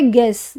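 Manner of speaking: "गेस" as a single gess syllable; silent U. Shown as a demonstration. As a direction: say "गेस" with no oo sound. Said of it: "यू की sound देखो इसमें नहीं".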